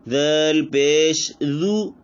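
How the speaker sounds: slow letter-by-letter जाल पेश जू; drawn out जू; spelling out. Shown as a demonstration. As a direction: teach each sound of जू. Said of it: "जाल के ऊपर पेश है".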